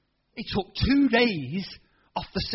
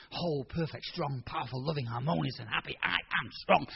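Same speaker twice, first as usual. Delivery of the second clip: softer, lower steady recital; quiet confession; 3 semitones lower, 5 dB quieter than usual. Retold or imitated. Boy confessing healing over himself each day, soft. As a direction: murmur it as a daily prayer.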